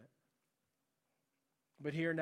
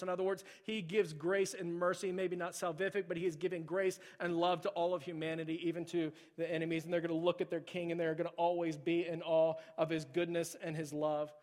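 usual speaking voice

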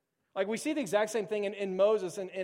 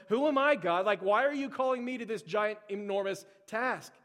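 raised, mildly incredulous pleading; overwhelmed protest. Acted. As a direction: question God in acted disbelief. Acts out Jeremiah questioning God.

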